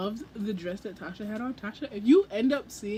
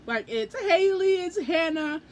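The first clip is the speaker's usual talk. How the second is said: higher, louder, slow, near-tearful squeal; fangirl squeal; 6 semitones higher, 4 dB louder than usual. Retold or imitated. Fan listing the booktubers she sees, tearful squeal. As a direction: squeal like a fan about to cry. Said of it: "Massive fangirl attack".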